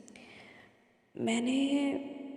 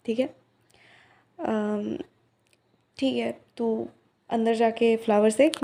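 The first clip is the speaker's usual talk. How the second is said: louder, calling across the shop; 5 dB louder than usual. Acted. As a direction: call out instructions to the helper in back. Calling out orders to Chhotu. (छोटू को ज़ोर से आवाज़ देकर निर्देश देना)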